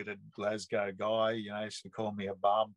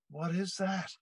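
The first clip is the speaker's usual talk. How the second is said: higher-pitched imitation of an amazed friend; mock stunned question, pitched up; retold astonishment; 8 semitones higher than usual. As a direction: act out a mate's baffled wonder. Friend's amazed reaction, acted in retelling.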